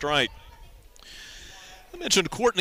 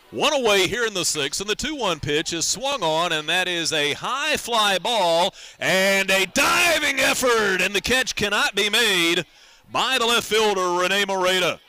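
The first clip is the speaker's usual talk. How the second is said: louder, higher call of a diving try; rising play call; 3 semitones higher, 3 dB louder than usual. Real, not acted. Announcer calling a diving catch attempt, louder and excited. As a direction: lift it as the ball hangs. Fly ball call on radio.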